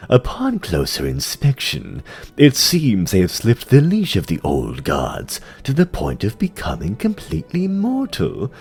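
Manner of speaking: lightly voiced, measured demon courtier; sly dreadlord. Tichondrius reporting to the Lich King, lightly voiced sly demon. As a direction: purr it with mocking deference.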